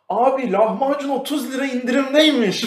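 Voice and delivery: high, loud pitchy sales call; pushy salesman. Retold or imitated. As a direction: burst in announcing a deal. Salesman bursting in office. (yüksek sesli satıcı duyurusu)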